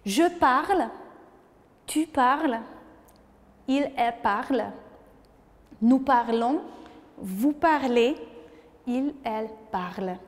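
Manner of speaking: French verb drill spoken clearly; model conjugation for repeating. Shown as a demonstration. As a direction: clear teacher modelling of "parle". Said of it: "Peut-être vous pouvez répéter à la maison".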